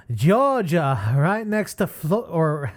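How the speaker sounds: slow Southern drawl, first stab at it; southern accent. Pretend. Host attempting a commenter's line, Southern accent. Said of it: "put on my, my southern accent".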